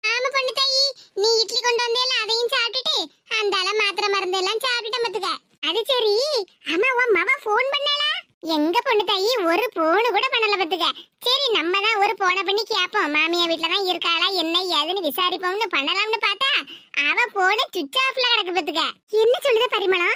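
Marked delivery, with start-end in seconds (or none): 1.2-5.3 put-on old mother. Old mother Parimala voiced. 8.5-18.8 put-on old mother. Old mother Parimala voiced.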